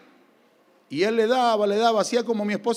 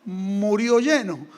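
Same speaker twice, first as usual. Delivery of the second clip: father's dry remark. Retold or imitated. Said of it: "él los miraba y decía".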